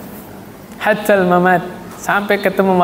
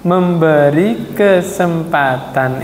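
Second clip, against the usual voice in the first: slow deliberate answer; much slower than usual. Shown as a demonstration. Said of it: "sabar ada batasnya apa tadi".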